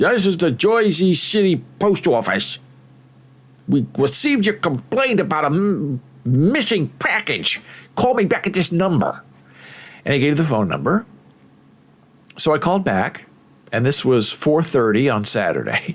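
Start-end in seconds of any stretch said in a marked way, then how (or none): 0.0-9.2 put-on thick, heavy New York accent. Quoting a post office worker's phone message, in a heavy New York accent. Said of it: "this guy with a very heavy accent, I don't want to say a New York accent, but it's pretty New York".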